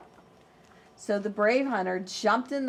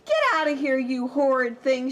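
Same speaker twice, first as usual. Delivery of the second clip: louder, higher furious granny; furious cry; 4 semitones higher, 5 dB louder than usual. Acted. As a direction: chase him off in outrage. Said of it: "she cried".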